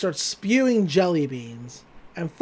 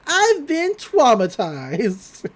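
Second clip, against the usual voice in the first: a slow, stunned deadpan announcement; 5 semitones higher, 4 dB louder, much slower than usual. Retold or imitated. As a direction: drag it out very slowly. Gordy pops up, deadpan joke.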